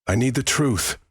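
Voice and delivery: high-pitched, insistent demand. A narrator's reading. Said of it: "she demanded".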